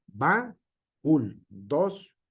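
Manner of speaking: baúl split as ba, úl with the accent on úl; broken into two syllables. Shown as a demonstration. Teacher shows students the accent breaking the vowels, syllable by syllable. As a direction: say baúl in two separate beats, ba-úl. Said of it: "hay un acento que nos rompe".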